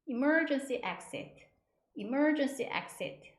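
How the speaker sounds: "emergency exit" slowly and carefully, i-mer-jen-si ek-set; careful, slowed emergency exit; model pronunciation. Shown as a demonstration. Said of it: "이렇게 발음하시고요".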